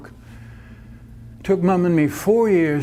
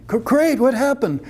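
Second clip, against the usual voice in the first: stammering surprise; 7 semitones higher than usual. Acted. Jack surprised by Kate's call.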